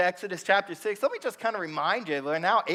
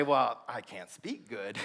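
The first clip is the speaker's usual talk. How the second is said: sheepish mumble; 9 semitones lower, 7 dB quieter, slower than usual. Acted. Moses voiced in the story.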